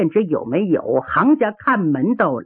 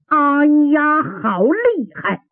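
drawn-out, raised "aiya"; pained exclamation; 6 semitones higher, slower than usual. Acted. Wounded fighter clutching his ribs, pained exclamation. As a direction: groan it out, nursing a blow. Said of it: "他一扶软肋".

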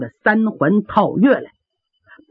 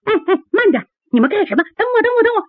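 giggling call; 11 semitones higher, much faster than usual. Acted. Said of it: "就听有人嘻嘻咯咯笑".

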